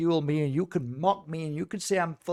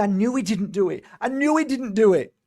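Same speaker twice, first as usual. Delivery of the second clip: higher, building retelling of a crying mother; retold tearful insistence; 4 semitones higher, 4 dB louder than usual. Crying mother insisting on her son's innocence, retold with mounting distress. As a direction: repeat it with rising urgency, imitating her upset. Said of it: "And she's crying".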